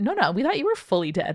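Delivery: normal talking voice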